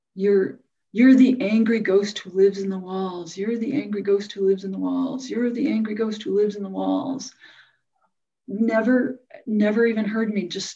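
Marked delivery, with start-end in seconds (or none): 0.2-7.4 contained angry yelling, repeated over and over. Recounting her husband yelling at her while holding her hand: retelling a yell. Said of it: "he's yelling at me".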